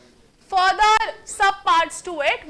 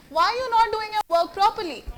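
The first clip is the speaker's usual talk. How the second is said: "not" hit higher with a falling end; stress on not; 5 semitones higher than usual. Shown as a demonstration. Teacher repeating the question with a new stress. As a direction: press the word "not" in a firm question. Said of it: "called the tone".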